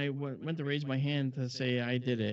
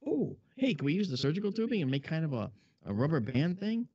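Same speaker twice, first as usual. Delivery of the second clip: eager; 6 semitones higher than usual. Retold or imitated. Excited idea pitched to boss.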